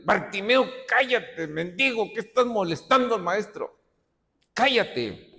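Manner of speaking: acted crowd reprimand; scolding rebuke. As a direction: hush a nuisance beggar like an irritated bystander. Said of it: "Y muchos le reprendían".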